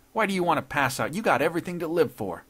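high, loud, baffled protest; impatient protest. A narrator's reading. Intruder arguing the judge should live, loudly impatient. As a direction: argue it with impatient force.

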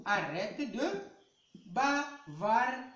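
slow, firm teacher telling a pupil off; drawn out like a strict teacher silencing chatter; teacher's order. Retold or imitated. Schoolteacher telling a chatting pupil to stop, slow and stern. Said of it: "le maître vous dit".

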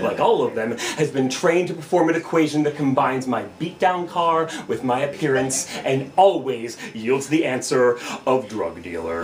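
low, measured spoken-word indictment; slam poetry. Acted. Driver blaming Officer Lowell, slam poetry. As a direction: lay out the charge deliberately in a low register. Second slam poem continues.

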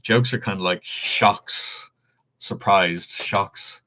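talking with a marker in mouth; slow words round a marker in mouth. Real, not acted. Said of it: "with a marker in my mouth".

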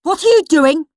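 Henry barging in, demanding an answer. Acted. Henry bursts into Peter's room, demanding loudly. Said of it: "demanded Horrid Henry".

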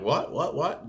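mildly startled, quick rising questions; startled toddler. Retold or imitated. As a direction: imitate a kid thrown off track. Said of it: "that just kind of startles them".

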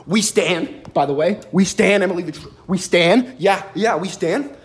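loud hyped approval; loud cheer. Real, not acted. Cheering a tweet.

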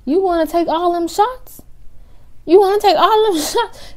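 high, teasing question breaking into a laugh; laughing disbelief. Retold or imitated. To the drunk sister, laughing disbelief. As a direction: tease her through a laugh.

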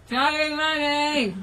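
cheeks stuffed with marshmallow; mumbled through a full mouth. Real, not acted. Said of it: "stick it in your mouth".

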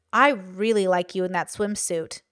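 low, slow, suggestive compliment; insidious compliment. Shown as a demonstration. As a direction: say it a little too slowly, with a hint of menace. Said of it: "which could be, like, insidious".

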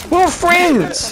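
squeaky plea. Acted. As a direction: squeak that you're friends. Pleading to a player.

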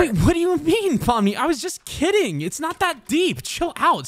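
defensive backpedaling. Acted. Husband backpedals after breakup.

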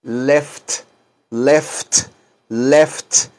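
"left" said three times, each ending on a clear F and a crisp T; careful left. Shown as a demonstration. Teacher drilling students on "left" with a crisp T. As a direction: drill "left" so every F and T is heard. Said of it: "Pronuncien bien toda la palabra left".

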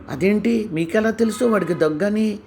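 puzzled wife asking how he already knew; surprised. A narrator's reading. Janaki asks her husband how he knew, surprised. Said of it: "అని అంది జానకి ఆశ్చర్యంగా".

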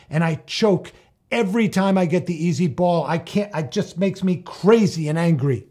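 venting hot frustration at himself; mock angry teen yelling; retold angry yell. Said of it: "and he yelled".

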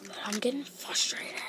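quietly whispered frustration; whispered aside to viewers while stuck. Real, not acted. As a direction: keep it under your breath to the viewers. Whispering in the library.

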